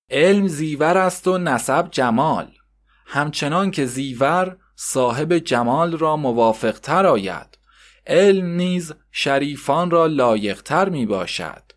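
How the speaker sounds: slow, deliberate reading of a proverb; slow measured schoolbook recitation; lesson recitation. Acted. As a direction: read each maxim slowly like a lesson. Reads maxim from textbook.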